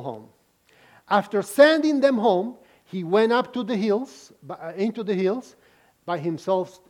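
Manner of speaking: measured, deliberate Bible reading; scripture reading. Acted. Pastor reading the Gospel to the congregation, unhurried. Reads scripture passage aloud.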